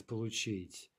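Получить stressed on the last syllable чить; careful model of Получить, end stressed; final-syllable stress. Shown as a demonstration. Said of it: "stress pattern simply by looking at the infinitive".

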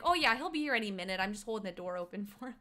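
hammed-up Minnesotan chattiness; mock Minnesota accent breaking into a chuckle; bad Minnesotan accent. Over-nice door-holder explaining, mock Minnesota accent. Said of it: "my Minnesotan accent is so bad".

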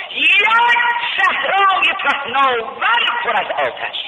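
high, loud preacher's cry; impassioned pulpit chant; full-force preaching. Acted. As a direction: lift the story into a sermon cry.

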